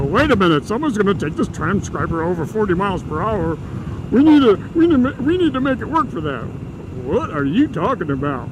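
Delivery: hammed-up Japanese accent, high and loud; mock Japanese accent. Sony engineer objecting in a design meeting, mock Japanese accent. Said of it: "That's my Japanese accent".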